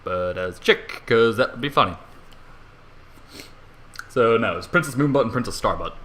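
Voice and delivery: usual speaking voice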